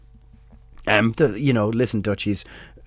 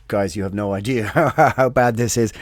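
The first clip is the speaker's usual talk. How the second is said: retold laughing warning. Promoter warning the band about the gig, retold with a laugh. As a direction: laugh breaking into the middle of the quote.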